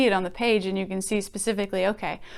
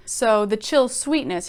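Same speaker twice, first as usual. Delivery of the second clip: chill sweetness said slowly, each word weighed; slow, savoring. Shown as a demonstration. Teacher savoring the poet's phrase for students, slow. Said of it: "he doesn't say".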